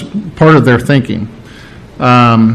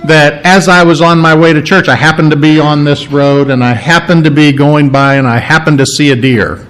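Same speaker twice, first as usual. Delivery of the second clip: casual happenstance. Pretend. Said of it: "just a happenstance".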